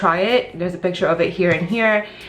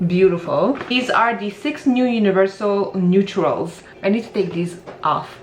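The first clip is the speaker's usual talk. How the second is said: speaking with whitening strips. Real, not acted. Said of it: "if I'm speaking a little bit weird, it's because I'm whitening my teeth and I have some whitening strips on".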